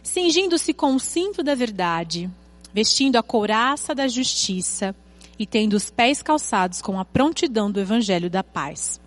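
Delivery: measured, emphatic Bible reading with stretched key words; solemn read-aloud with weighty pauses; scripture reading. Acted. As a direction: read the verses out deliberately to a congregation. Reads Bible passage aloud.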